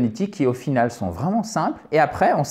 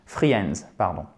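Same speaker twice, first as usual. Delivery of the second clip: put-on "Friends" lower, with a heavy French accent; mock French accent; 8 semitones lower, 5 dB quieter, slower than usual. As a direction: mockingly say "Friends" like a French learner. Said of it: "je me moque, c'est pas drôle". (« Friends » avec un accent français moqueur)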